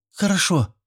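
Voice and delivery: a light, high schoolgirl's yes; girl's reply. A narrator's reading. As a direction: answer high and quick like a girl. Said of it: "кивнула ученица".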